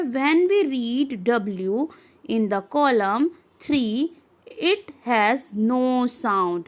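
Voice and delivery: very slow, word by word; slow textbook reading. Acted. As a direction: read it out slowly for the class. Reads English textbook text slowly. (धीमे-धीमे पाठ पढ़ना)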